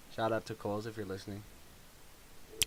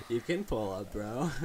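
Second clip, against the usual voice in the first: stoner voice; 4 dB louder, slower than usual. Retold or imitated. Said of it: "sound like the biggest stoner".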